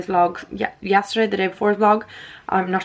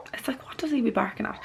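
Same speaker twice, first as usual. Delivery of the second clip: whispering; 4 semitones higher, 9 dB quieter, faster than usual. Real, not acted. Whispered aside about dog.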